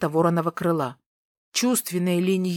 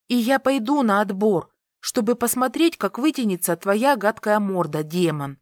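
defiant jeer; 3 semitones higher than usual. Acted. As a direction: throw it at him defiantly. Heroine jeers at the prince.

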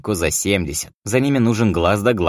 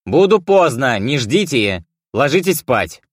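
storming off shouting; 6 semitones higher, 4 dB louder, slower than usual. A narrator's reading. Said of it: "крикнул я на прощание".

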